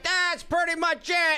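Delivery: hammed-up small-town local, high; mock local. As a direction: shrug it off like a local. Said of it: "And they're like".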